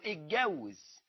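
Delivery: اتجوز with a hard Egyptian g; colloquial Egyptian form. Shown as a demonstration. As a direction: model the everyday word اتجوز, g before w. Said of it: "ما بتقولش تزوج". (نطق عامي مصري لكلمة اتجوز)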